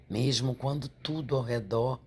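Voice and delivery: ordinary delivery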